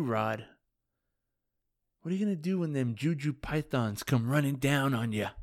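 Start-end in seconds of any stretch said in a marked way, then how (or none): 2.0-5.3 a lightly voiced nineties wrestling promo taunt; hint of a hammed-up wrestler calling out a rival. Podcaster taunting Rod's team, lightly hammed wrestling promo. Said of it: "little nineties wrestling reference there".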